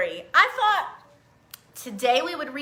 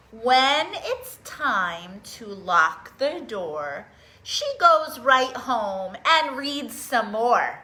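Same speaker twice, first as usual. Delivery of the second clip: slow storybook reading; much slower than usual. A narrator's reading. Reading picture book aloud.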